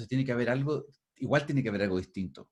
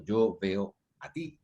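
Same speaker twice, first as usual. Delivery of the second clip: "Yo veo a ti" spelled out slowly, word by word; slow teacher demo; slow careful demo; 3 semitones lower, much slower than usual. Shown as a demonstration. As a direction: lay out each word slowly for the class. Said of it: "ese a ti ya se transformó en objeto".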